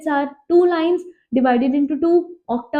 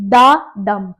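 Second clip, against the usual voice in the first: light "da", then a louder stressed "dum"; da dum rhythm; 5 semitones lower, 5 dB louder than usual. Shown as a demonstration. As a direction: beat the iamb out: weak "da", strong "dum". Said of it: "unstressed and stressed".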